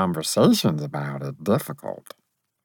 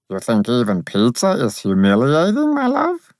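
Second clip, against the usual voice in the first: put-on childlike faerie voice; 4 semitones higher than usual. The narrator faerie speaks.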